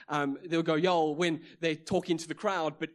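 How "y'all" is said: louder Southern American "y'all"; Southern US accent. Retold or imitated. Preacher showing how Southerners address a crowd, Southern US accent. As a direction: lightly put on a Southern accent. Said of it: "he said it's a brilliant accent".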